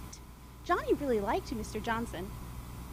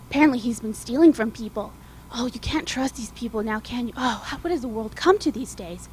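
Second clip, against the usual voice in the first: gossiping mom; 3 semitones lower, 3 dB louder than usual. Acted. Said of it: "called the other mom".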